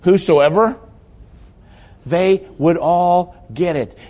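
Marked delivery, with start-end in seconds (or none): 0.0-0.8 "Whosoever" called out high and loud with a rise; proclaimed whosoever. Real, not acted. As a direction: announce "Whosoever" with joy. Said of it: "proclaiming the word".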